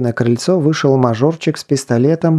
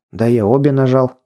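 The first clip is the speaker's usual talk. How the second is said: ordinary delivery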